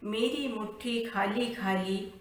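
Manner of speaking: measured, lilting verse reading; poem recitation. Acted. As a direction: recite the verse line by line, drawing out phrase ends. Recites her poem before introduction. (लयबद्ध कविता पाठ)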